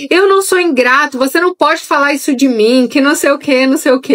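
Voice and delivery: put-on high, indignant child's protest; a touch of a hurt kid talking back; offended child. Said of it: "Ele é todo ofendido".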